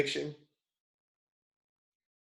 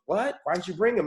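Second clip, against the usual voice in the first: higher-pitched retold surprise; surprised; 6 semitones higher than usual. Mom hearing her son found his father, surprised. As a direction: question it in startled disbelief. Mom reacts to startling news.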